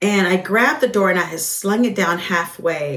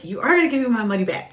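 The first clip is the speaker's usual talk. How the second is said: angry customer; 3 semitones higher, much faster than usual. Retold or imitated. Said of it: "tells me".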